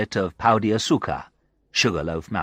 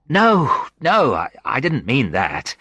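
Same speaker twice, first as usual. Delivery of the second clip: embarrassed; 4 semitones higher, 4 dB louder, slower than usual. Acted. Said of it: "embarrassed and wishing that I hadn't asked".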